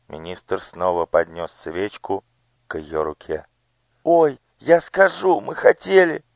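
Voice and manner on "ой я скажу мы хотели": high, frightened cries; a hurt child begging; pained pleading. Acted. Elo in pain. (жалобная мольба)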